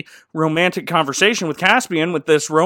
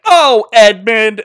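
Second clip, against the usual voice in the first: sitcom groan; 5 semitones higher, 9 dB louder, slower than usual. Retold or imitated. Everyone groans sitcom style.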